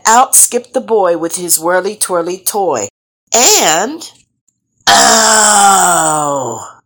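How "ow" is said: pained moan. Acted. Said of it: "moaned the snake".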